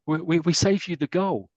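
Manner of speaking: a schoolboy pleased with his own bad pun; cheeky little kid. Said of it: "one little kid there goes".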